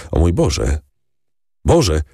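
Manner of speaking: rising alarmed exclamation; crying out in dread. A narrator's reading. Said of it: "zawołał Morel, blednąc".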